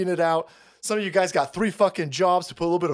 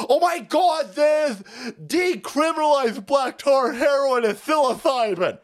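mock excited leftist; 5 semitones higher than usual.

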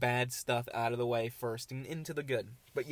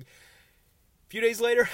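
slow, much higher and louder dramatic build-up; ominous storyteller; 10 semitones higher, 9 dB louder, much slower than usual. Acted. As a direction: drag it out like a horror trailer. Ominous turn in dog story.

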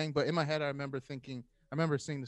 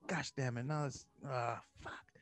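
defeated grumble; 5 dB quieter, slower than usual. Retold or imitated. Retold defeated swearing.

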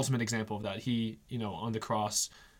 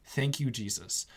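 softer, lower, calm and accepting; peaceful prayer; 3 semitones lower, 4 dB quieter, slower than usual. Retold or imitated. Retold pope thanking Jesus for his crushed hand, quietly at peace. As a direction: pray it gently, at peace despite the pain. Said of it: "but he was said".

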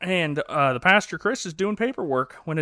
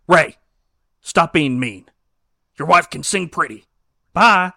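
mild mock yell; 7 dB louder than usual. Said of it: "he yells less at Ray".

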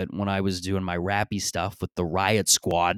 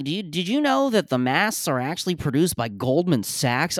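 higher, eager voice of an online crank; mock conspiracy theorist; 6 semitones higher than usual. Mimicking online idiots sharing conspiracy takes, mock eager. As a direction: ape the know-it-all sharing a secret. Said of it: "They're like".

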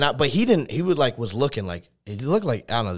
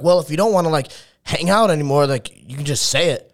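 mildly defensive retold comeback, raised and louder at first; 2 semitones higher, 5 dB louder than usual. Stranger at the wrong house answers back to roommates, defensive. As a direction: imitate someone getting a little huffy. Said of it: "he was getting all defensive".

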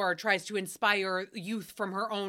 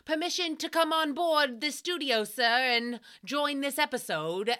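mock formal request; 5 semitones higher than usual. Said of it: "He was like".

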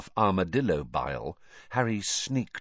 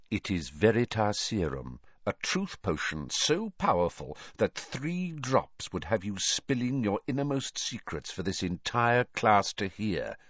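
vicious. Acted. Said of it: "said Snape viciously".

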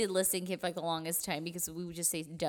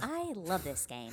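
slow drawn-out game show voice; slow put-on voice; slower than usual. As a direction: stretch it out like a showman. Echoed slowly in a put-on voice.

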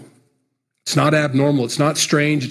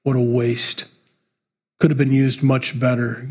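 mocking scorn. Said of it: "have them stand over you saying".

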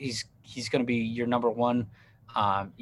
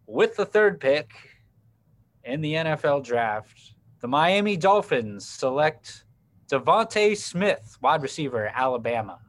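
clown Goodell voice; 4 semitones higher, 4 dB louder than usual. Acted. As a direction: announce the pick like a hammed-up commissioner. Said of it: "get my clown Goodell voice on".

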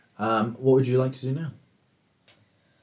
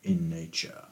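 genie voice; 4 semitones lower than usual. Acted.

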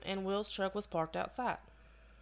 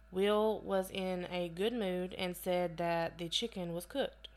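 breathless, winded reading; short of breath between words; slower than usual. Real, not acted. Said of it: "I'm, like, out of breath".

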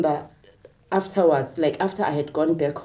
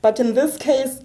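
high-pitched retold objection; indignant protest; 7 semitones higher than usual. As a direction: plead your case to the medical staff, pitched up.

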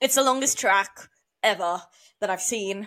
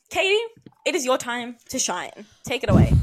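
calling out; 3 semitones higher, 6 dB louder than usual. Real, not acted. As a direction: announce it like a host. Hands the show to Katie.

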